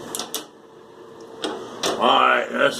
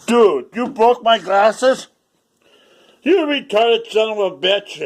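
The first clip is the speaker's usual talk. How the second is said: high loud mock yell; fake-furious, slow and high; mock outrage; 10 semitones higher, 5 dB louder than usual. Vlogger yelling at himself over broken glasses, mock angry.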